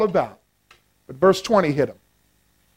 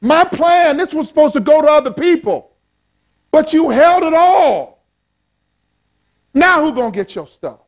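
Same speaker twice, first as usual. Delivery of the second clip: God scolding the hoarding rich man; God rebuking; 7 semitones higher than usual. Acted. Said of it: "He says".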